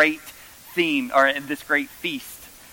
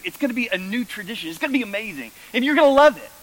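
insistent mom; 8 semitones higher, 3 dB louder, much faster than usual. Retold or imitated. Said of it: "she kept using the word new".

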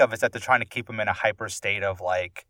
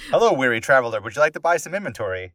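lightly voiced game merchant greeting; hint of a video game innkeeper; RPG shopkeeper; 3 semitones higher, 3 dB louder than usual. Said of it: "save point in an R P G".

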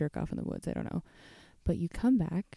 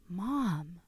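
a light hint of a mortified teenager; mild mock protest at mom; embarrassed daughter. Daughter protests mother's embarrassing remark.

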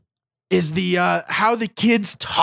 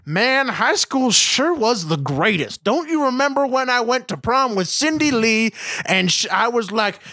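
nostalgic dad writer; 2 semitones higher than usual. Retold or imitated. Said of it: "the dad who wrote this reliving".

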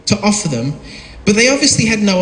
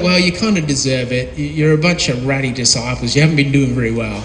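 mock scolding; 6 semitones lower than usual. Imagined scolding Jesus.

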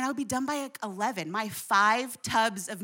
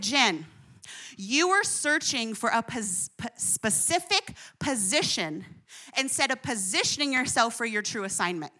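lightly voiced stern dad correcting his child; daddy voice. The Lord correcting Jen, a touch of stern daddy voice. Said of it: "he got his daddy voice on".

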